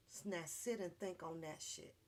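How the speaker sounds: ordinary talk, nothing marked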